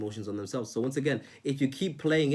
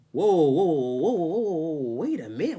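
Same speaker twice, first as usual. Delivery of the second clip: louder, higher whoa of surprise; retold taken aback; 5 semitones higher, 6 dB louder, slower than usual. Recalling reacting to a friend's guilt trip, surprised and louder. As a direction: stop them short, startled. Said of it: "And I was thinking".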